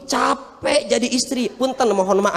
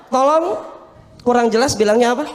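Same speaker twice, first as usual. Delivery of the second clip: hammy TV drama shock; overwrought soap opera gasps; 2 semitones higher than usual. Acted. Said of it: "Kayak sinetron".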